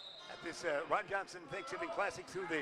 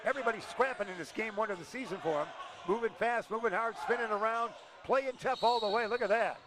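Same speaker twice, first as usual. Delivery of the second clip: play-by-play; 3 dB louder than usual. Acted. Live play-by-play.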